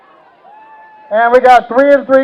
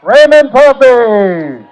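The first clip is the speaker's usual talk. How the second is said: announcing the winner; slower than usual. Real, not acted. Crowning the reigning champion.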